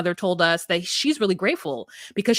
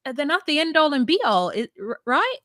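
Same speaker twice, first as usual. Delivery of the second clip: raised high, lightly voiced mother; mock high mother; 5 semitones higher than usual. Mother dismissing kids to daughter, mock high voice. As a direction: play the mom, pitched up. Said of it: "she's like".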